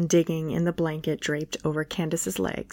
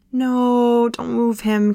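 high, loud cry of protest; screech; 4 semitones higher, 5 dB louder, slower than usual. A narrator's reading. Candace shrieks at Kyle not to move the dog, high and loud. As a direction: shriek to stop him moving the dog. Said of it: "Candace screeched".

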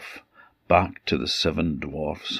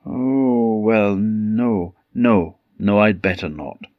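Snow White; 3 semitones higher, 4 dB louder than usual. Acted. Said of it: "said Snow White".

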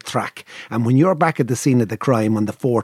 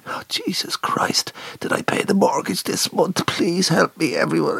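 mock panic; 4 semitones higher than usual. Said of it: "I just held my head and I went".

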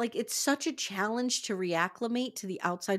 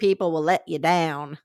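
put-on country accent; 4 semitones lower, 8 dB louder than usual. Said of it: "I don't know what accent that was".

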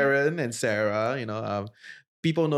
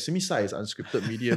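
Singlish; 4 semitones lower than usual. Retold or imitated. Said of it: "Then I said".

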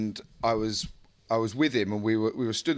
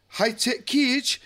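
shady character; 11 semitones higher, much slower than usual. Retold or imitated. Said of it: "proper old school sort of shady character".

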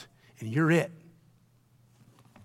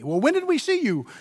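puzzled question; 10 semitones higher, 4 dB louder than usual. Acted. Voicing puzzled followers questioning Jesus.

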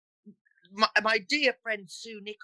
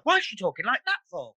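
higher, Black Country disbelief; Black Country onlooker; 4 semitones higher than usual. Shown as a demonstration. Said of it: "People would be like".

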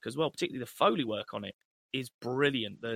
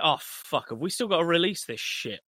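mock-dismayed, pitched-up complaint; exasperated; 3 semitones higher, 4 dB louder than usual. Studio executives regretting the deal, mock-exasperated. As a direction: moan as if stuck with a dud. Imagines studio groaning about inherited film.

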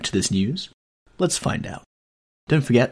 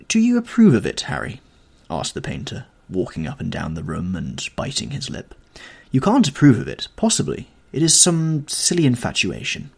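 Basil pacing and biting his lip, urging Harry; agitated Basil; 3 semitones higher than usual. Acted. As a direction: press Harry anxiously.

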